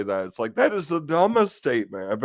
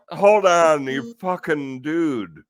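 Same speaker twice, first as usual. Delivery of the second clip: exasperated anger; 4 dB louder, slower than usual. Real, not acted. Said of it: "I get so mad at stuff like that".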